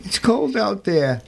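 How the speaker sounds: put-on a shivering street boy answering the caretaker, timid. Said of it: "the timid boy's voice reply".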